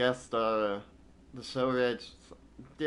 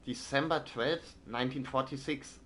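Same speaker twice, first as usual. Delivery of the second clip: crisp newsreader voice, slightly higher; news read; 5 semitones higher than usual. Acted. Streamer reads a German newspaper like a newsreader. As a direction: read it like an old wartime newsreel. Reading in-game newspaper aloud.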